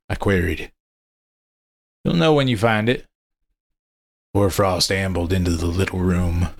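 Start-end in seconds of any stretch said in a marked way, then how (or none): 2.0-3.1 higher, knowing character voice; a cagey old hunter; monster hunter voice. Acted. Monster hunter answers cryptically.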